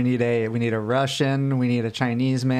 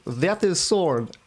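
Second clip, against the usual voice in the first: put-on Russian accent; 5 semitones higher, much slower than usual. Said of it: "do a Russian accent".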